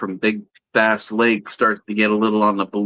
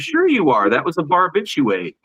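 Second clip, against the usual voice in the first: mock bartender punchline; 6 semitones higher than usual. Bartender's punchline in dad joke.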